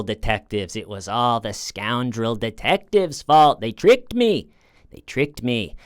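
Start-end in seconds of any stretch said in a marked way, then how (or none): 3.6-4.5 high, louder whiny mock of her; whiny mock quote. Mocking Sarah blaming the detectives, in a high whiny voice. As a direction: whine it like a child caught out.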